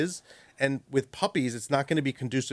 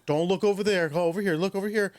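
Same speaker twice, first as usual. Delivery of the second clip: higher, sing-song urging; coaxing distraction; 7 semitones higher than usual. Retold or imitated. Owner distracting dog from another dog, high coaxing. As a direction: lure the dog's eyes away, pitched up.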